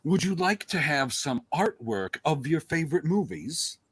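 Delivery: slow, showy sales pitch; sponsor ad read. Acted. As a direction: pitch the sponsor, landing on the brand.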